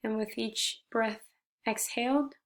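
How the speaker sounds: gentle meditation guide with long pauses between phrases; guided meditation. Shown as a demonstration. Leading listeners in reflecting on gratitude, guided meditation. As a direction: guide them through breathing, slightly softened, unhurried pauses.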